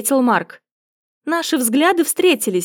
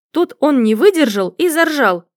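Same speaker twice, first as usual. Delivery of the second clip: ordinary delivery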